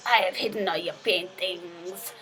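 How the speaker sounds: slow villain with mock Italian accent; bad Italian accent. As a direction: arch nemesis in a badly faked Italian accent. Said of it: "I can't do an Italian accent".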